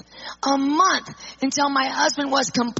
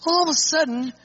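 sudden sick voice. Retold or imitated. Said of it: "his entire countenance changes".

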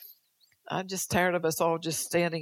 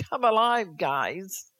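louder, higher mock cheer; cheering call; 3 semitones higher, 5 dB louder, slower than usual. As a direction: rouse the crowd playfully. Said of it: "She's saying".

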